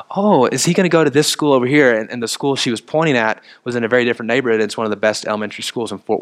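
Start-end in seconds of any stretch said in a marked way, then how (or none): 0.1-1.9 lightly voiced sweet old lady, a bit higher; a hint of a kindly grandmother asking; sweet grandmotherly voice. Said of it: "grandmotherly type of person".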